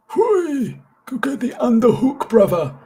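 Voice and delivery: high yelled cheer at the screen; coaching yell. Real, not acted. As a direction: shout encouragement at the fighter. Yelling at his younger self in video.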